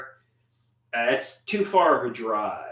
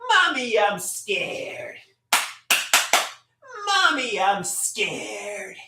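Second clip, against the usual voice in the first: mock scared girlfriend; 4 semitones higher, slower than usual. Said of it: "And she says".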